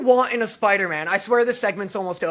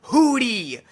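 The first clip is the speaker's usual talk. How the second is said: slow, louder and higher; insistent proud declaring; 4 semitones higher, 6 dB louder, slower than usual. Real, not acted. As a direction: declare each one proudly.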